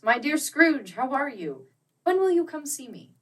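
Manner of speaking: high, bright glad hello; gladsome greeting. A narrator's reading. Passer-by hailing Scrooge in the street, gladsome and high. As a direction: greet him with cheerful delight. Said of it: "with gladsome looks".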